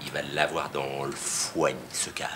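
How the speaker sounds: slow, hushed whisper behind his hand; slow conspiratorial whisper; whispered aside. Acted. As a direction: breathe it out as a sly aside. Aside mocking the jeweller.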